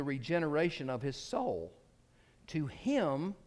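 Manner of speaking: emphatic, oratorical reading with strong stresses; quotation read aloud. Acted. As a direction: declaim the written prose to a congregation.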